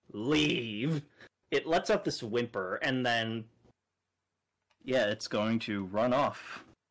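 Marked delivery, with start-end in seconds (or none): 0.1-1.0 commanding, forceful one-word call. Voicing a starry warrior ordering something away, booming voice. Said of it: "as he calls out in this booming voice".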